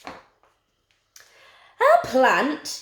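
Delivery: mock-horrified mum's exclamation; horrified yell. A narrator's reading. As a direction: exclaim it in storybook horror. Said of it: "yelled Mum in horror".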